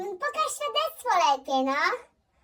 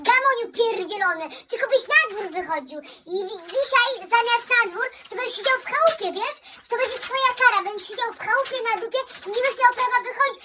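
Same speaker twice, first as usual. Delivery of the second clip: nagging mother going on and on, mocking and scornful; angry mother rant; 4 semitones higher, faster than usual. Mother rants at her lazy son about his future, scornful. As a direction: rattle off her threats half-laughing.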